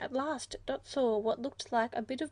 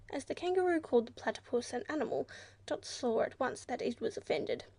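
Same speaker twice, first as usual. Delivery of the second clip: usual speaking voice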